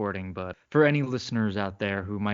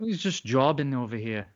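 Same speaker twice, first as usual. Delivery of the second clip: a hint of mock Irish brogue. Podcaster quoting Irish wrestling reviewers, Irish brogue. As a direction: slip lightly into an Irish accent. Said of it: "like, an Irish brogue at times".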